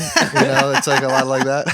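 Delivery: laughing through the words; words breaking into laughter. Real, not acted. Laughs after imitation.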